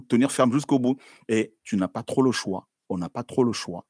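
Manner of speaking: normal talking voice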